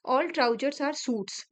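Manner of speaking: each word drawn out slowly; slow teacher dictation of a statement. Shown as a demonstration. Reads conclusion to check.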